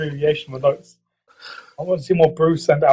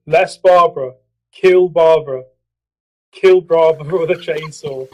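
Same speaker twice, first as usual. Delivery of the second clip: shouting capitalized words; 4 dB louder than usual. Pretend. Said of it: "so I have to shout it".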